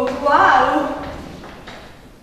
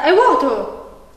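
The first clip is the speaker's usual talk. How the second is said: slow, laughing discovery; surprised laugh; much slower than usual. Acted. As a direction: stretch it out, amused. Discovers empty product box. (sorpresa divertita)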